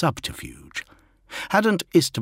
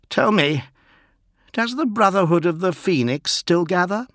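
raised, imperious prince; regal voice; 10 semitones higher than usual. Acted. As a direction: ask like a haughty lord.

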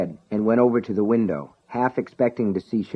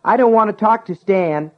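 high, loud yell down the stairs; 11 semitones higher, 5 dB louder than usual. Acted. Brian yells down to his brother, high and loud. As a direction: shout it so it carries downstairs. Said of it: "he yelled".

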